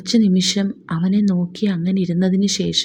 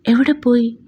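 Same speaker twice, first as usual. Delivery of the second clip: startled question; 4 semitones higher than usual. Acted. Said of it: "അമ്മച്ചി ഞെട്ടി".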